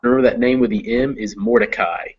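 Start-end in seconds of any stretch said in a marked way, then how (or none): 1.4-2.0 "Mordecai" ending in a clear "eye" sound; long I ending. Shown as a demonstration. Teacher reminds student of the name, "Mordecai" ending in long I. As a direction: say "Mordecai" so the last syllable rhymes with sky. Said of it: "I is how it ends".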